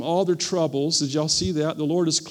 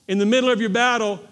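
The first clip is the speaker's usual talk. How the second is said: louder, driving "middle" home; preached louder; 4 semitones higher, 4 dB louder, faster than usual. Shown as a demonstration. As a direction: hammer the word "middle" with force. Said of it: "I'm gonna say it again".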